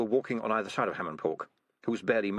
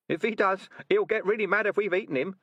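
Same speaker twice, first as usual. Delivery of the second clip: high squeaky rat voice; a worried little rat; 11 semitones higher, 4 dB louder than usual. Acted.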